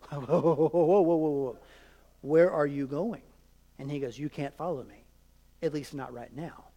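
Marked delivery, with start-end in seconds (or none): 0.1-3.2 stunned voice, the disciples stopping Jesus mid-sentence; a startled whoa, whoa, half-laughing disbelief; alarmed disciples. Retold or imitated. Disciples reacting to Jesus leaving, startled. 4.2-6.6 softer, lower and calm; gentle Jesus. Retold or imitated. Jesus telling his disciples he leaves, softly.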